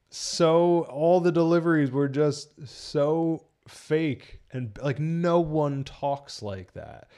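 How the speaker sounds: slow, drawn-out exasperation; exasperated criticism. Real, not acted. Film reviewer complaining about fake deliveries, exasperated. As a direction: stretch the words out in disbelief.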